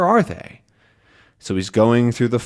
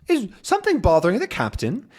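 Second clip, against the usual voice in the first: Calculus; 10 semitones higher, faster than usual. Acted. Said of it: "Calculus asks".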